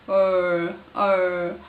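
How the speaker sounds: "R" with a tapped Marathi r; Marathi style R. Shown as a demonstration. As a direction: flip the tongue forward on "R". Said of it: "pronounce this R sound".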